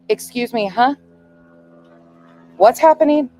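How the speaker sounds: alarmed mother demanding answers; "What's happening?" nearly shouted; rising panic. Retold or imitated. Mother panics at bad news.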